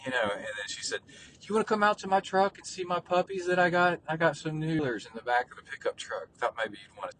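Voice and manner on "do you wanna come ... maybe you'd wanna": high-pitched imitation of an old country lady; little old lady. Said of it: "this little old lady".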